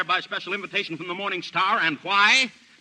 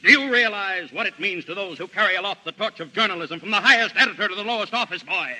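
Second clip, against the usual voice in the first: pompous; 4 dB louder than usual. Acted. Pompous speech about journalism.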